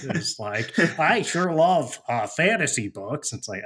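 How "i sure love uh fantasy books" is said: nasally voice. Retold or imitated. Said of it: "my nasally voice".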